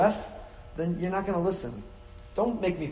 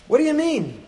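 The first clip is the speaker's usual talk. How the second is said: mock puzzled; 10 semitones higher, 5 dB louder than usual. Mock puzzled listener question.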